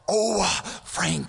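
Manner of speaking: theatrical cry to a friend; mock showy call to a buddy; mock shout. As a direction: overdo calling the friend. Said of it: "I don't sit my friend and go".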